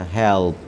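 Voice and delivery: touch the l lightly in हेल्प. Shown as a demonstration. Teacher showing the light l in हेल्प. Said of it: "यहाँ पे एल आएगा हल्का सा".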